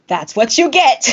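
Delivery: gloating quote through laughter; teasing. Retold or imitated. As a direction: tease with a laugh. Imitates Melanie teasing her.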